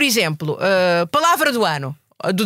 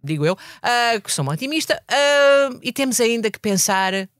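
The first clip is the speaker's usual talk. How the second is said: dreamy optimist; 4 semitones higher than usual. Acted. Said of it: "Estás drogada?".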